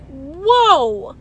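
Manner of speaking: taken aback. Retold or imitated. Reacting to the vet's stern warning, startled. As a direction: recoil at what you just heard.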